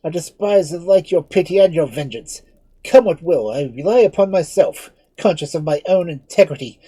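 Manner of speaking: high, loud, defiant declaration; defiant exclamation. Acted. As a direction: hurl defiance at a fiend. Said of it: "exclaimed Lord Edmund".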